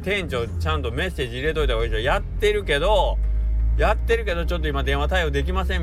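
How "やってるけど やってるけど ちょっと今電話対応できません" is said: staff suggestion. Retold or imitated. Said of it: "って言うから".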